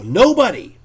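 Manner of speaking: mock scalper shout. Scalper snaps at the artist, mock shout. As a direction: yell it like a rude scalper.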